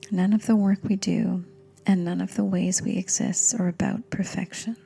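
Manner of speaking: gentle meditation guide with long pauses; guided meditation. Acted. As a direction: ease the listener into calm, phrase by phrase.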